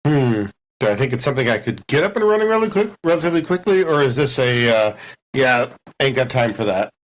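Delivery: a gruff low-voiced tinkerer, mulling it over; deep character voice. Tinkerer weighing whether to fix the terminal, low and gruff. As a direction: drop way down and muse to yourself.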